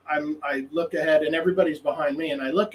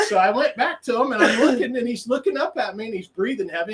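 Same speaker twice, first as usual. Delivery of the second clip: ordinary delivery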